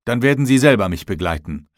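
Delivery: exclaimed retort, starting high and loud; called out. A narrator's reading. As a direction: call it out, opening on a high, loud word. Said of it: "rief ich".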